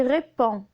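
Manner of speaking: "répond" ending on a nasal on, d unsounded; silent D. Shown as a demonstration. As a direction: say "répond" as ré-pon, no final d. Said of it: "la lettre D est muette". (« répond » prononcé ré-pon, d muet)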